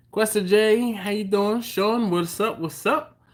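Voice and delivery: loud, bright hello to a friend; excited greeting. Real, not acted. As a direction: call out his name happily. Greeting viewer in chat.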